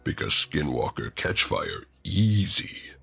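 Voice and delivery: slow, broken-speech orc. Acted. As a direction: talk like a slow, simple orc. Orc character speaking.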